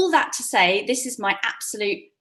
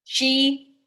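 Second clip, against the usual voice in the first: staccato; 6 dB louder, much slower than usual. Shown as a demonstration. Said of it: "Word at a Time Story".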